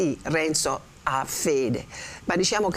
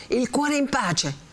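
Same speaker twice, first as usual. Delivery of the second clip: higher, slow, scornful repeat of "Il cuore in pace"; indignant echo; 9 semitones higher, slower than usual. Acted. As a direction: throw "Il cuore in pace" back at her in disbelief. Renzo throws back her words.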